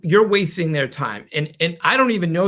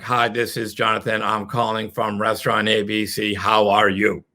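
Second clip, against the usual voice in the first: robotic caller; 6 semitones lower than usual. Shown as a demonstration. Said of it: "Don't sound like a robot".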